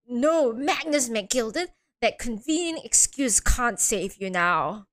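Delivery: slow, measured accuser's voice; Vince Eeks. Acted. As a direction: pronounce it slowly like a stern prosecutor. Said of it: "Vince Eeks is like".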